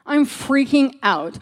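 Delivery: freaking out. Retold or imitated. Telling him she's overwhelmed.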